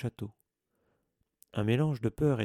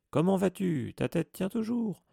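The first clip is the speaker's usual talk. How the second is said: loud, much higher, mocking bellow; roaring; 8 semitones higher, 5 dB louder than usual. A narrator's reading. Headless ghost mocking Nick before the crowd, roaring. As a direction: roar the taunt for the whole crowd. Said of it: "rugit-il".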